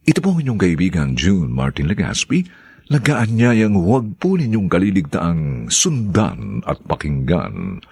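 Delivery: brisk, friendly announcer read; radio host sign-off. Acted. Host invites listeners to follow the next chapters, announcer voice. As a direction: invite listeners back, quickly and smoothly.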